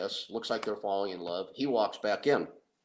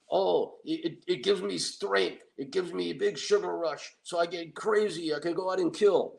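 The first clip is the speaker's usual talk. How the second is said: Tony voice; 8 semitones higher than usual. Retold or imitated. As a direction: brag like a dim strongman.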